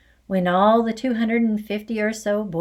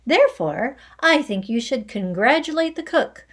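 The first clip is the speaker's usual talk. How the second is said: loud lecture; 6 semitones higher, 5 dB louder than usual. Acted. Trunchbull lecturing loudly.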